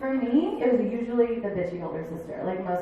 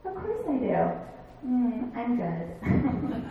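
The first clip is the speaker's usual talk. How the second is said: slow, smug brush-off with a laugh; smug dismissal; 3 semitones higher, much slower than usual. Pretend. Imagined reply to the saleswoman, slow and smug. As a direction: drag out a smug no thanks. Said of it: "I could have been like".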